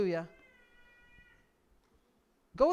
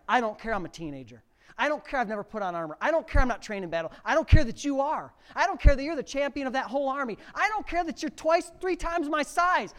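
defiant David; 4 semitones higher, 4 dB louder than usual. Pretend. David to the giant.

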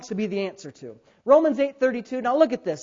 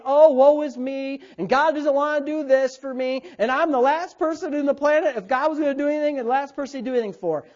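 hammed-up woe-is-me moan, pitched higher; mock self-pity; 5 semitones higher, 4 dB louder than usual. Pastor imitating a self-pitying Christian, mock wailing. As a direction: wallow loudly in put-on self-pity. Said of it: "self-loathing and pity and saying".

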